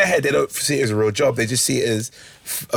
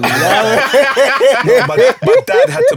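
laughing through words; 11 semitones higher, 8 dB louder, much slower than usual. Real, not acted. Laughing while telling the story.

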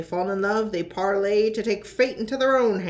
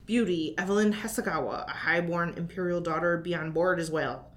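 put-on pirate accent. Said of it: "hosting things with a funny accent".

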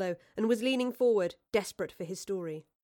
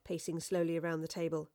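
ordinary delivery

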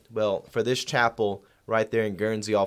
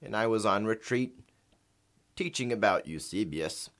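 lightly voiced porpoise on a phone line; a porpoise speaking through a phone; over the phone; 3 semitones lower, 4 dB quieter than usual. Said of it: "We're gonna do a phone interview with them".

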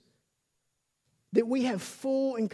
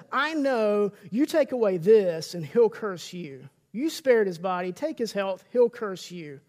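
proud accusing Satan; 6 dB louder than usual. Acted. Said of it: "the pride before the Lord".

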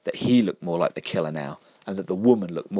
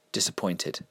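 parental disappointment; 5 dB quieter than usual. Acted. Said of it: "Spoken just like a parent".

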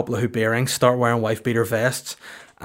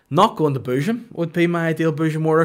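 deadpan punchline; 5 semitones higher, 5 dB louder than usual. Real, not acted. Punchline after pause.

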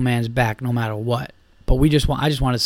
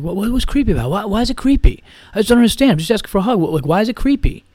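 high-pitched, wounded bewilderment, imitated; mock indignant protest; 8 semitones higher, 4 dB louder, faster than usual. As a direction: whine like an offended drunk. Drunk man protests being called creepy.

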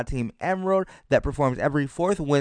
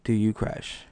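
whispered question; much slower than usual. Pretend. Mock-intense whispered question.

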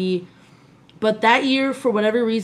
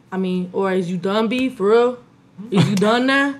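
guy cousins' Bronx talk. Retold or imitated. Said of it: "They be like".

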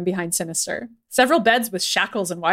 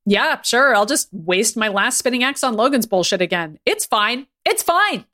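sarcastic resignation; 4 semitones higher than usual. Acted.

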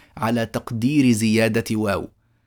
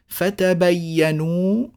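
slow recitation; 4 semitones higher, much slower than usual. Shown as a demonstration. Teacher reciting a reading.

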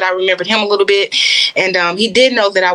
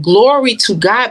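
fervent praise; 3 semitones higher, slower than usual. Retold or imitated. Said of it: "I'm crying out to God".

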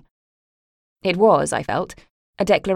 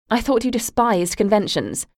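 a higher, smiling sneer; malicious smile; 5 semitones higher than usual. Acted. Mother mocking her daughter's rebellion with a malicious smile. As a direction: purr the jab with a smile. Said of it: "with a malicious smile".

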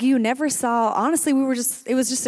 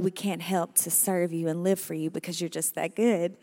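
prayer. Acted.

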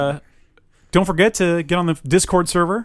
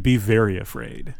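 whisper; 4 semitones lower than usual. Acted. Reading a horror tagline.

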